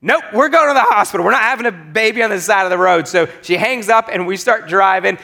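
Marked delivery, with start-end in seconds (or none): 0.0-3.1 firm refusal. Retold or imitated. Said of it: "my wife goes".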